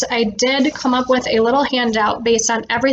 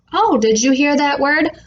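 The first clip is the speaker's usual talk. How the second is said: bright teacherly prompt, drawing the "S" out in "School"; speech therapist modeling "School" with a lingering "S" for a young child; 2 semitones higher, much slower than usual. Shown as a demonstration. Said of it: "go like this".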